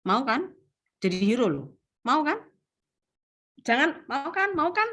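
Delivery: mock pushy salesperson begging for agreement; pestering push. Shown as a demonstration. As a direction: badger the client for a yes. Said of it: "Jangan gini".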